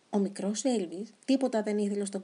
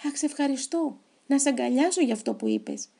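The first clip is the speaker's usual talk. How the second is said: higher, louder thrilled thanks; excited; 5 semitones higher, 3 dB louder than usual. Acted. Crocodile Colin thrilled at Elvis's offer, excited. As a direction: burst out with delighted gratitude. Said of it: "φώναξε ο Κόλιν ενθουσιασμένος".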